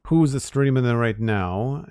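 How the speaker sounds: put-on terrible Italian accent. Streamer looking for who to pass viewers to, bad Italian accent. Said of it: "with a really terrible Italian accent".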